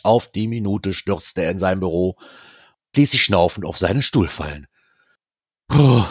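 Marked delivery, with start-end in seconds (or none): 5.7-6.0 louder, higher puff of exhaustion; groaned "phew". A narrator's reading. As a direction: let out a stressed groaning sigh. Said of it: "stöhnte er". (erschöpft gestöhntes Puh)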